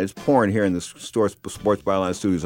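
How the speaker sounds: tripping over the words, restarting; stuttering. Real, not acted. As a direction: stammer and stall mid-word. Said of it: "I'm stuttering".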